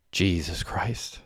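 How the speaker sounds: slow, soft, drawn-out exclamation under the breath; hushed inner thought. A narrator's reading. Derek thinks it on finding Mandy there, hushed and slow. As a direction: say it quietly and slowly, as if thinking. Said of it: "thought Derek".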